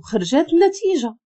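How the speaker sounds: mildly challenging, lifted tone; striking tone of voice. A narrator's reading. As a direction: raise the pitch to confront him. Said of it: "مستغرب من نبرة صوتي".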